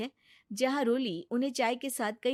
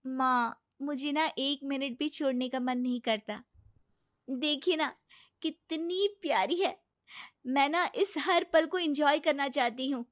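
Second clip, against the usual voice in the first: put-on a touch higher, gushing over the baby; doting young mother; 5 semitones higher than usual. Young mother telling mother-in-law about her baby, doting. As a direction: coo with fond delight over your daughter.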